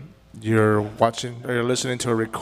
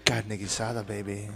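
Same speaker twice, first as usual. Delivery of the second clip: ASMR murmur; 4 semitones lower, 8 dB quieter than usual. Acted. ASMR food whisper bit.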